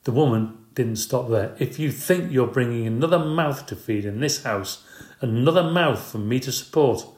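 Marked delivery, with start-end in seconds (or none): 1.6-7.0 a higher, complaining voice; wife complaining about another mouth to feed; mild indignant complaint. Acted. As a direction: keep nagging him. Wife keeps scolding.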